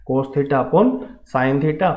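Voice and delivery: very slow, word by word; slow dictation. Shown as a demonstration. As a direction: dictate it slowly for copying. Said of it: "तो इनको box में लिख लो एक बार".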